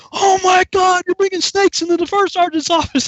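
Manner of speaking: high, loud mock horror, easing slightly; outraged accusation. Sergeant accuses recruit about snakes, mock outrage. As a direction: yell the accusation like an appalled sergeant.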